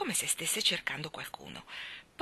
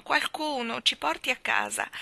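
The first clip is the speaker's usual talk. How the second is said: sad plea; 6 semitones higher, 3 dB louder than usual. A narrator's reading. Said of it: "sorridevano tristemente e dicevano".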